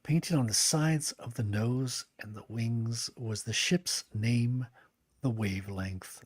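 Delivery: steady storybook reading voice; narrator voice. Shown as a demonstration. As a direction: read it like an audiobook narrator. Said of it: "my narrator voice".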